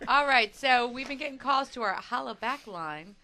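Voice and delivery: slow drawn-out host call; radio announcer. Shown as a demonstration. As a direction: stretch it like a DJ. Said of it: "did I say that better than Joe".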